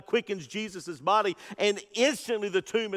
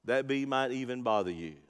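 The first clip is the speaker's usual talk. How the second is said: gentle father; 6 semitones lower, 5 dB quieter than usual. Retold or imitated. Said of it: "he says".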